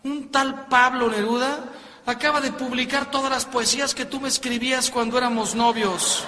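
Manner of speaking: hammed-up accusing outcry; hysterical outrage, acted. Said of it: "histérica gritando".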